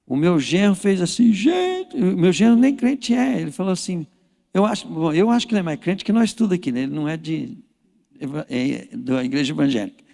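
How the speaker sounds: normal talking voice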